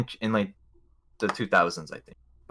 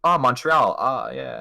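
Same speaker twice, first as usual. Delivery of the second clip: mock Boston accent; 3 dB louder, slower than usual. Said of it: "I don't know how to fucking do a Boston accent".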